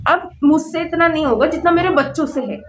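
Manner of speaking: barely holding back crying; choked up talking about her mother; emotional, near tears. Real, not acted. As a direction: voice catching with real tears. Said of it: "sorry, मैं emotional हो गई".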